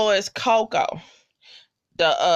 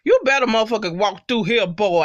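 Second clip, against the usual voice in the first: retold holler. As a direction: hype him up like a fan on the couch. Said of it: "I was hollering at my screen".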